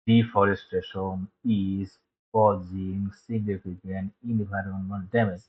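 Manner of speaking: slow, each word read separately. Shown as a demonstration. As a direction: read it one word at a time, slowly. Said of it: "প্রতিটা শব্দ এভাবে আলাদা আলাদা পড়ি". (শব্দ আলাদা আলাদা করে ধীরে পড়া)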